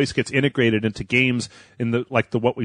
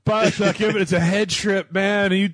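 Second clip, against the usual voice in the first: stoner voice; 6 semitones higher than usual. Acted. Continuing the stoner bit.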